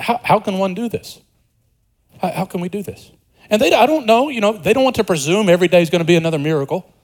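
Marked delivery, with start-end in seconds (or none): 0.0-3.1 soft, tentative asking; a quiet, uncertain question; humble question. Retold or imitated. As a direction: ask it humbly, almost to yourself. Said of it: "this is a more humble question".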